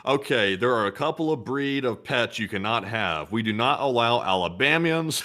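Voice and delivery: mock-official rule reading; alien HOA official. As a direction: lay down neighborhood rules with comic gravity. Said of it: "in the alien H O As, they're like".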